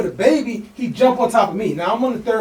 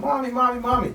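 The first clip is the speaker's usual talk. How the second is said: put-on high childish calling of mommy; 5 semitones higher, 4 dB quieter than usual. Narrator voicing toddler calling for his mother. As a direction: voice the little kid whining for mom.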